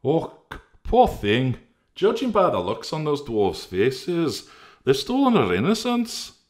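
very high, loud scandalized voice; Integrity scandalized, rising to a squeal; crying out. Acted. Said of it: "cried Integrity".

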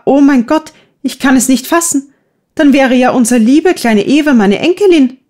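put-on old lady overwhelmed by sudden news, crying out; great agitation. A narrator's reading. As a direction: cry out in shocked joy, voice climbing. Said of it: "in großer Erregung auf und rief".

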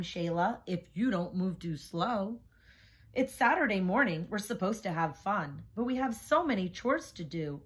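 put-on lively picture-book read-aloud for kids; reading to children. A narrator's reading. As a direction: read it like story time in class. Reads picture book to class.

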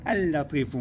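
اللطيف with one long, stressed L; doubled lam. Shown as a demonstration. Teacher summing up the rule, doubled lam. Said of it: "ننطقه هي اللام الثانية المشددة".

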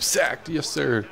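sudden high, drawn-out cheer; excited. Real, not acted. Gamer celebrating a sack by the defense, excited. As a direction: break off into a thrilled call.

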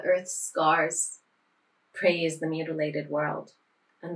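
measured poetry reading with pauses between lines; poem recital. Acted. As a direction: recite it line by line, letting the ending fade. Reads a translated poem aloud.

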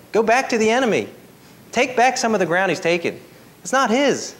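fired-up preaching. Real, not acted. Preacher rallying church back into the battle, fired-up preaching. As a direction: press each line on the congregation.

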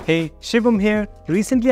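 normal talking voice

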